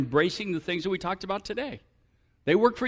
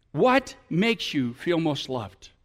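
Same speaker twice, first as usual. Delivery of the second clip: slow question; 3 semitones lower, much slower than usual. Shown as a demonstration. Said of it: "ask each other this question".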